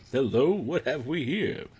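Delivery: Lando imitation. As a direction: lightly mimic a suave catchphrase. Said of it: "That actually sounds like Billy D".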